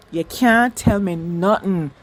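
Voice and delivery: slow, emphatic Jamaican accent. Shown as a demonstration. Fan declares her certainty about Ben, Jamaican accent. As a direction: lean into a Jamaican accent, drawing the words out. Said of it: "I'm gonna speak in my Jamaican accent".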